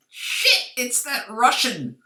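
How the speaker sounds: sudden high shout of alarm; cried out. A narrator's reading. Thug in the warehouse spots the intruder, alarmed shout. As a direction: yell it in panic, high and loud. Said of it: "a voice cried".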